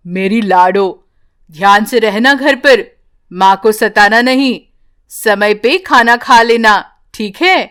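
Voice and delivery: put-on a father gently instructing his little girl; loving father. Father voiced to daughter. (धीमी, स्नेह भरी पिता की आवाज़)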